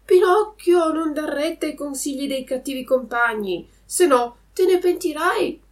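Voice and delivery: voce di uccello alta e forte; merlo ammonitore. A narrator's reading. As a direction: avverti Pinocchio come un merlo, acuto. Il merlo bianco ammonisce Pinocchio. (il merlo bianco ammonisce Pinocchio, voce alta e squillante)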